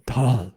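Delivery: "dal" drawn out with an Indian d; Indian-style dal. Retold or imitated. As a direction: echo "dal" the Indian way, as if it dawns. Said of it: "I've had this with Indians".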